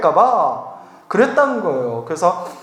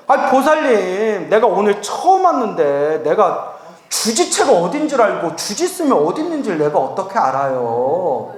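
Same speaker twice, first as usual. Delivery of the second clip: through gritted teeth. Acted. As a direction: hold irritation behind clenched teeth. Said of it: "제가 막 이를 악물면서". (이를 악물고 화를 참는 말투)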